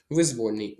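«Визвольний» stressed on VOL; stress as in воля. Shown as a demonstration. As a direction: lean on «воль» in «Визвольний». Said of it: "Бо воля". («Визвольний» з наголосом на «воль»)

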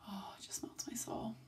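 whispered, melting over the dog; soft gush. Real, not acted. Vlogger gushing about her puppy's cuddles, whispered. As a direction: breathe it out in a whisper.

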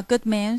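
"good man" both syllables stressed; double stress. Shown as a demonstration. Teacher scanning "good man" for the class. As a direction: press "good" and "man" equally.

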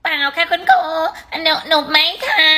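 timid stammer to the teacher; a frightened pupil stammering an apology; scared student. Acted. Scolded student stammering to her teacher.

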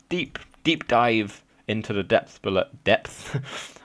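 slight lisp on the s sounds; lisping through the words. Real, not acted. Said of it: "I have a bit of a lisp right now".

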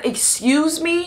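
high, drawn-out incredulous question; mock disbelief. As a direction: act out being taken aback, stretching it upward. Retold shock at friend's news.

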